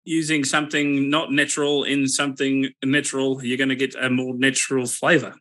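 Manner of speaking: put-on a light, half-hearted Australian accent; a casual Aussie "mate" accent that stays close to his own voice. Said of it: "my best Australian accent for you".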